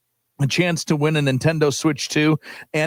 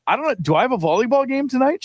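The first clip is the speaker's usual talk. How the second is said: much higher, fast, mock-baffled; confused self-quote; 10 semitones higher, faster than usual. Husband retelling his panic to his wife, high and flustered. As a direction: play dumb in a high, hurried voice.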